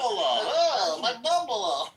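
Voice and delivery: cartoonish Jewish accent, swooping high; high, hammed-up Jewish accent like a cartoon; mock Jewish accent. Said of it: "you don't need to make it Bugs Bunny".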